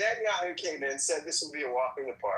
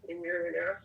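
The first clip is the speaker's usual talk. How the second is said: muffled; faster than usual. Real, not acted. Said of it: "You sound muffled".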